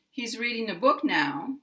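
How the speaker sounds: "now" glides down at the end; stressed "book", falling glide on "now"; falling intonation. Shown as a demonstration. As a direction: let the pitch fall on "now". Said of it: "My voice falls at the end".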